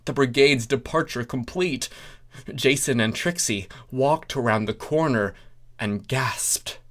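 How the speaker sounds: usual speaking voice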